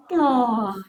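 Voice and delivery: soft, falling sympathetic "oh"; tender woman's coo. Acted. Woman seeing a crying baby, soft sympathetic coo. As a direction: melt softly with pity. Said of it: "solo una mujer cuando ve un niño llorando".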